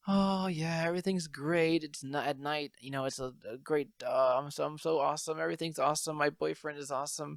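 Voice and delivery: mock dreamy, airheaded and high; airheaded girl. Teller mocking a dazed girl crossing the street, dreamy voice. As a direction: play her as a spacey girl in wonderland. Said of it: "She's just looking around like".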